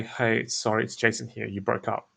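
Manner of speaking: soft and easy, dropping away; like calling someone you know; casual laid back. Shown as a demonstration. Salesman demoing his opener, softly casual. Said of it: "my tonality".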